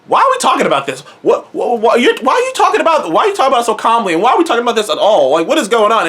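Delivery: fast, rising exasperated questions; half-shouted baffled rant; mock alarmed rant. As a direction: fire off confused protests.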